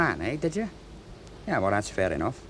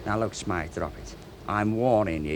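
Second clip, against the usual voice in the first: low threat; 4 semitones lower, 4 dB quieter than usual. Acted. Macready silencing Smythe's accusation.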